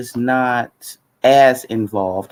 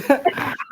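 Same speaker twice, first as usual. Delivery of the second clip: dry cough. Real, not acted. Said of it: "My throat is itching".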